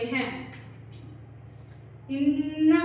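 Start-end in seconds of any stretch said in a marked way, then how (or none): 2.1-2.8 इन्ना with a nasal held नून; nasal ghunna. Shown as a demonstration. Teacher repeats इन्ना to show ghunna. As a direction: hum the nn of इन्ना. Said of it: "कौन सा कायदा हो रहा है".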